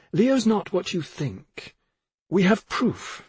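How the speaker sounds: high-pitched, insistent accusation; sharper tone. A narrator's reading. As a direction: press the charge sharply, aggravated. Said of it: "she took on a sharper tone".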